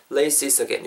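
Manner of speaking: "laces again" joined as "lei-si-sagen"; linked words. Shown as a demonstration. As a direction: run the final s of laces into again. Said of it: "이렇게 붙는다는 것까지".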